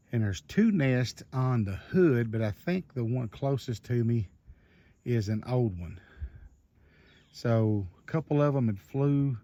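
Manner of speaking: slow, winded talk between breaths. Real, not acted. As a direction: still catching breath. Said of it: "trying to catch my breath".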